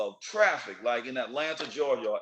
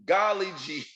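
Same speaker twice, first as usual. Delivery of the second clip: mock innocent surprise; 5 dB louder, slower than usual. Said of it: "you're like".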